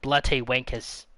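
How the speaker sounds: lightly put-on British insult; British accent. Still playing the annoyed Brit for friends, British accent. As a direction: toss off an insult in mock British. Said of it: "do a British accent".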